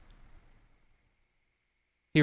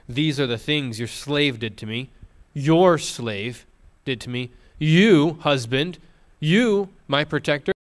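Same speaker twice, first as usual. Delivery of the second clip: wife's plea; 4 dB louder than usual. Retold or imitated. Wife's plea read aloud.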